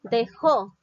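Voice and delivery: "Dejó" loud, with the force on the final jó; stress on JÓ. Shown as a demonstration. Teacher shows where the accent falls, stress on JÓ. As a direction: hit the last syllable of "Dejó" hard. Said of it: "el acento lleva en la sílaba jo".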